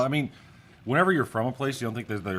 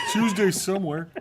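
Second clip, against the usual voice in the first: laughing; 12 semitones higher, 7 dB louder than usual. Real, not acted. Laughing joke about taco day.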